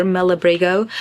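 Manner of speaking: Malabrigo in an English accent. Shown as a demonstration. Spanish speaker showing viewers her earlier way, English accent. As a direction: anglicize the Spanish yarn name. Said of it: "said it with an English accent before".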